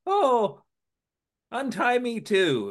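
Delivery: put-on high pleading old lady voice. Joker's hostage, an old rich lady, begs him. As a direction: squeak it out like a fussy rich matron.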